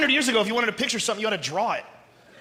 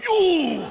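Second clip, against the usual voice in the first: pained ooh; 6 semitones higher, 4 dB louder than usual. Retold or imitated. Impact of the punch.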